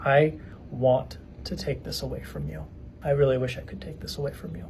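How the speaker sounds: soft, gentle retold fatherly words; tender reassurance. Father to his crying son before bed, tender and softened. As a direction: speak softly, as if to an upset child.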